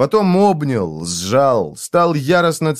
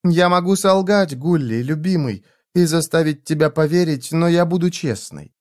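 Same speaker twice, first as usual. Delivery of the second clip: calm and tender. Acted. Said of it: "заговорила спокойно и очень нежно".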